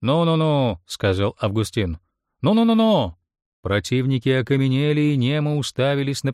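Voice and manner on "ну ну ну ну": higher and louder, breaking it up; loud calming. A narrator's reading. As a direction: call out over the quarrel. Stepping between quarrelling men.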